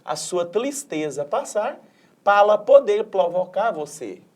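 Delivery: "palɐ plovokaɾ" with every R swapped for an L; mild comic kid lisp; Cebolinha's L for R. Acted. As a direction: swap R for L in "pra" and "provocar". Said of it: "porque ele troca o R pelo L".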